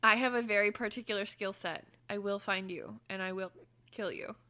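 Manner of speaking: lightly voiced, fading menace; Liam Neeson threat. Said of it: "It's not as convincing with the hiccups".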